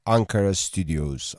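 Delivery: punchy, measured promo read over music; radio show intro. Real, not acted. Professor introducing the radio show to listeners, promo style. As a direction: deliver it as a rousing radio promo.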